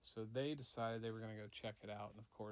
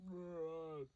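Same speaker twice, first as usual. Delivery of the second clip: raised creature moan; higher wordless groan; imitated monster groan; 5 semitones higher than usual. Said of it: "still hearing this".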